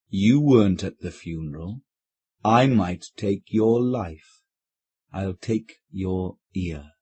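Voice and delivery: a stern phantom speaking slowly out of the dark; stern deep voice. Acted. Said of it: "a stern, deep voice saying".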